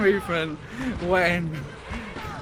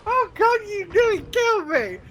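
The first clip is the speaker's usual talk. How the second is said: laughing; 5 dB louder than usual. Real, not acted. Laughing fit at co-commentator.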